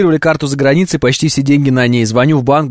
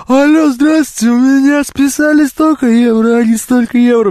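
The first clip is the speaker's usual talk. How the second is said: polite phone caller; 9 semitones higher than usual. Retold or imitated. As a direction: call the bank sweetly. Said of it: "чё я буду звонить в банк". (вежливый голос по телефону)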